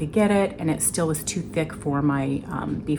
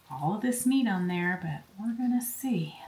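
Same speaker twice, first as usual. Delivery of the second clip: whisper; 5 dB quieter than usual. Real, not acted. Whispered aside while loading trays.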